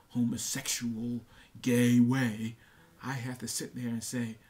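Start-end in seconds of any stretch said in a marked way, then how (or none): 1.6-2.6 "gay way" punched much louder; a sudden loud push on "gay way"; stress on gay way. Real, not acted. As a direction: hit "gay way" hard and loud. Emphatic rant about the phrase.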